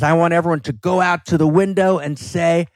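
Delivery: high, impassioned cry out the window; hammed-up outraged anchor yelling; mock Network rant. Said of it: "And he says".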